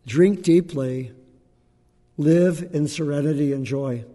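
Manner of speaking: slow, deliberate recitation of the Buddha's line; quoting the Buddha slowly. Retold or imitated. Teacher reciting a line from the Buddha, slow and solemn. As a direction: let "Drink deeply" land slowly and fully. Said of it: "A line from the Buddha".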